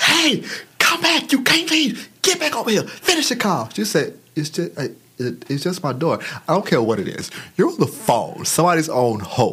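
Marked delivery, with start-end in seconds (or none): 0.0-3.7 yelling shout, much higher. Retelling yelling at a worker who left a customer on hold: retelling own yelling. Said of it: "I'm yelling".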